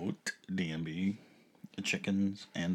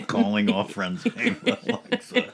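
announcer call; 3 semitones higher, 7 dB louder than usual. Pretend. Mock public announcement call.

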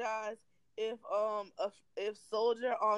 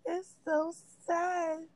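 mock crying; 8 semitones higher, slower than usual. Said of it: "And I was like".

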